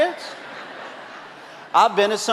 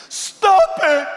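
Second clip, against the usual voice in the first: loud comic outburst; 9 semitones higher, 5 dB louder than usual. Retold or imitated. Punchline after the elopement.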